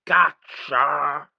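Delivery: put-on high childish growl; falsetto growl. A narrator's reading. Sulky child snatching, falsetto growl. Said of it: "falsetto growl".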